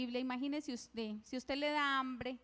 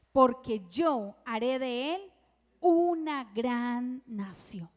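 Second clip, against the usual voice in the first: slow and weighty, a bit louder; an angel comforting a desperate mother from heaven, slow and solemn; 3 semitones lower, 4 dB louder, slower than usual. Retold or imitated. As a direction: pronounce each word like a heavenly promise.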